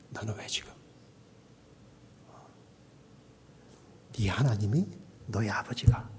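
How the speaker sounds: hushed inner voice of God, sinking toward a whisper; 내면에 들리는 하나님 음성. Acted. 하나님이 내면에 말씀하시는 인용. (나직이 타이르는 하나님 음성)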